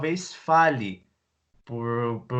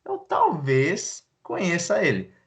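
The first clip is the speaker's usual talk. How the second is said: unsure musing; 3 semitones higher than usual. Acted. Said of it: "e você fica".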